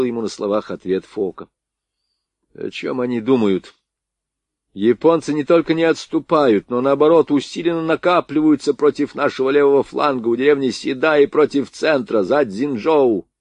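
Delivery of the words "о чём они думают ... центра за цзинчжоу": indignant. Acted. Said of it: "возмущался полковник".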